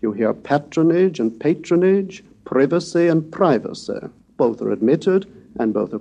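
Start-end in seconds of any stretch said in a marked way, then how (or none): 0.3-2.2 "patronage" first with short a, then long a; two variant pronunciations. Shown as a demonstration. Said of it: "such variations exist in standard modern English". 2.4-4.0 "privacy" first with short i, then long i; two variant pronunciations. Shown as a demonstration. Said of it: "such variations exist in standard modern English".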